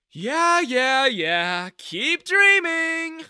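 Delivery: loud, high mocking brush-off; dismissive. A narrator's reading. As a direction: wave him away with scorn. Manager dismissing threat.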